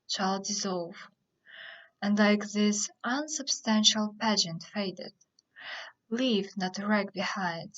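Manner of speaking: measured farewell speech, pausing between phrases; understated theatrical monologue reading; dramatic verse recitation. Acted. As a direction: recite it phrase by phrase, leaning on key words. Recites Prospero's speech after introduction.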